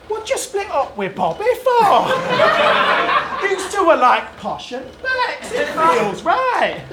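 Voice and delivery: northern English girl-talk impression; northern English accent. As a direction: mimic a gossiping mate in a northern accent. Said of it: "doing that bird's accent".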